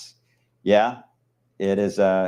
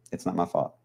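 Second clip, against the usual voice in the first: softer, mumbled under the breath; mumbled repeat; 7 dB quieter than usual. Pretend. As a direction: mutter it again as a joke.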